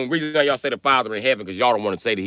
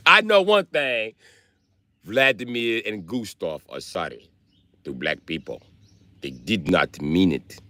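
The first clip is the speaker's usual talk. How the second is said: mock Russian accent; 4 semitones lower, 4 dB quieter than usual. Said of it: "My Russian accent".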